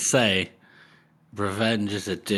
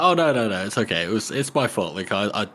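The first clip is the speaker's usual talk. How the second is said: mock polite. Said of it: "and it's like".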